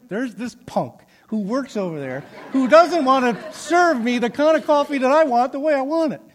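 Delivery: high, loud laughing rant; retelling the rant to the manager, laughing and loud; mock rant. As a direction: vent like an outraged customer, half laughing. Ranting text retold with laughter.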